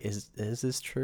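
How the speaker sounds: hushed, hesitant aside; inner doubt. Retold or imitated. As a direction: voice a doubtful thought quietly to yourself. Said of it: "I'm, like, in my head".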